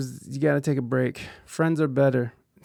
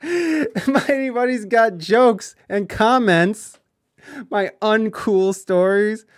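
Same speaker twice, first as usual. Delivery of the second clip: laughing mock offense; 6 semitones higher, 5 dB louder, slower than usual. Real, not acted. Mocking chatter's comment laughing.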